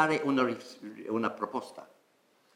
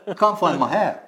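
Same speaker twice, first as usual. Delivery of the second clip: laughing, higher, joking about lost hair; 8 semitones higher, 5 dB louder than usual. Real, not acted. Teacher laughing about having no hair to touch. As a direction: joke at your own baldness while laughing.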